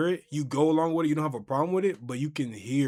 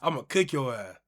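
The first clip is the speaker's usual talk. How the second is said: loud mock taunt, climbing in pitch; playground taunt; 3 semitones higher, 7 dB louder than usual. Brothers taunting each other over wrestling games, loud mock taunt. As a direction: yell it like kids trash-talking over a video game. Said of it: "We used to say".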